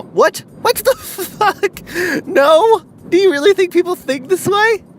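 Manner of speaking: very high, loud disbelief; incredulous outburst. Acted. Vlogger berating the marketers over Thor's line, incredulous outburst. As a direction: explode in hammed-up disbelief, stretching the curse.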